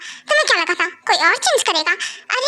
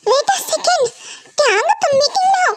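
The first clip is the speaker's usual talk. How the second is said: embarrassed laugh; 7 semitones higher than usual. Acted. Wife spots husband's meeting, embarrassed.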